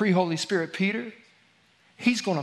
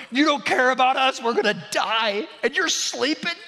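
panicked disciples; 8 semitones higher than usual. Retold or imitated. Disciples crying out to sleeping Jesus, in a higher panicked voice. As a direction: shout it over the storm in a panic.

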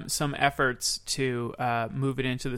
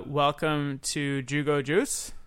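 cashier voice; 4 dB quieter, slower than usual. Acted. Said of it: "Can we roleplay".

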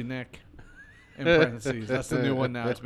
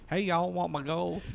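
1 Southern leprechaun; 2 semitones higher, 3 dB quieter than usual. Acted. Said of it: "talking with a Southern accent".

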